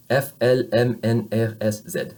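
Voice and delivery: "F, L, M" in a quick row, open eh; French letter names. Shown as a demonstration. Teacher reviewing the alphabet, open-vowel letter names. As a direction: run through French letters, "Z" as zed. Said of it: "when we say these letters of the alphabet".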